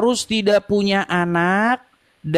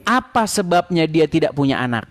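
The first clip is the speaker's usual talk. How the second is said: to someone hard of hearing; 2 semitones lower than usual. Real, not acted. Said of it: "Pelan-pelan, ya". (pelan-pelan, seperti bicara ke orang yang kurang dengar)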